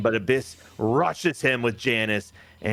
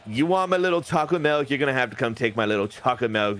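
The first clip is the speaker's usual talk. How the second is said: lightly voiced wrestler taunt; Demon Finn Balor; 3 semitones higher, faster than usual. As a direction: throw down a challenge, starting high. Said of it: "Demon Finn Balor says".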